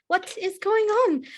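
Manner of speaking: drawn-out high woman calling; slow woman's voice. Acted. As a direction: stretch it out, calling from the hallway. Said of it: "a proper fair woman's voice".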